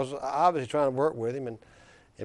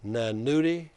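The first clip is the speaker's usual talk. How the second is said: put-on Black Belt accent. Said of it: "he says in that deep black belt accent".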